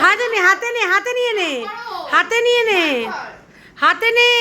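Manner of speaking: high, loud urgent calling out. Real, not acted. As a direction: hurry her to take it in hand. Hot egg, urging the child. (উঁচু, জোরালো গলায় তাড়াতাড়ি ডাকা)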